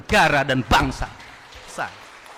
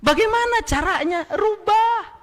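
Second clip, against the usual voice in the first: rally speech. Real, not acted. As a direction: call it out to the crowd. Rhetorical call to crowd.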